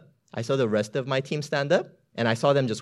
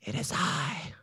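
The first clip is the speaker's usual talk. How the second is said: much softer, calm and gentle; soft Jesus voice; 4 semitones higher, 9 dB quieter, slower than usual. Acted. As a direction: speak calmly through the storm. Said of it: "I hear something like this".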